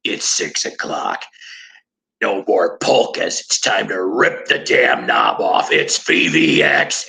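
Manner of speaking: imitating the station DJ kicking off the metal hours; radio DJ. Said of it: "you hear the D J go off and go".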